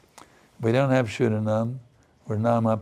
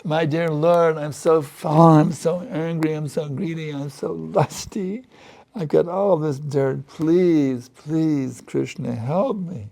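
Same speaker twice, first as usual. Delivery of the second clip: higher, imploring plea to God; pleading prayer; 4 semitones higher, slower than usual. Shown as a demonstration. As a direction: beg the Lord for help, higher and pleading. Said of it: "You can beg your way back to God".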